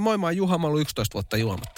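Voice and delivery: a hint of a recovering drinker introducing himself; mock AA introduction. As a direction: play it as a sheepish confession at a meeting. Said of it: "sä olit näin".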